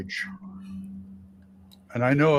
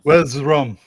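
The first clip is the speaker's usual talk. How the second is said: pirate voice; 5 dB louder than usual. Retold or imitated. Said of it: "to quote a famous person".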